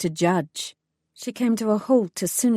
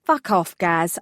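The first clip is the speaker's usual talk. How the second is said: tired; slower than usual. Acted. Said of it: "The woman's response was tired".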